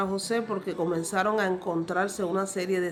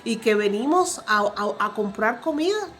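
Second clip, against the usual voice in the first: pleading brothers; 3 semitones higher than usual. Acted. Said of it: "los hermanos le dijeron".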